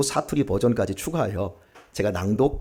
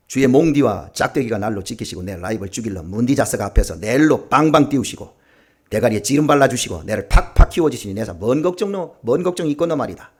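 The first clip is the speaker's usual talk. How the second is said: Psalm read in broad Gyeongsang dialect, lively. Shown as a demonstration. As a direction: recite it with a hearty Gyeongsang lilt. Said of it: "예, 경상도로 한번 하도록 하십시다".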